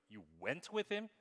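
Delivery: "went" punched, rising questioningly to the end; stress on WENT. Shown as a demonstration. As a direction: question the word "went" in disbelief. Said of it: "same words with different emphasis".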